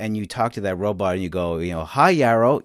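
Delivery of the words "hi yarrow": familiar, personal hello; friendly named greeting. Shown as a demonstration. Host showing how one greets a named robot, friendly. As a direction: greet a robot you know by name, lifted. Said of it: "you'll probably change your tone of voice".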